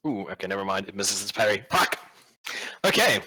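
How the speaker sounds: ordinary delivery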